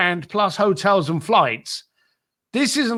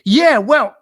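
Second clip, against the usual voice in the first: elevated voice; 7 semitones higher, 6 dB louder than usual. Retold or imitated. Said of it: "his voice elevated again".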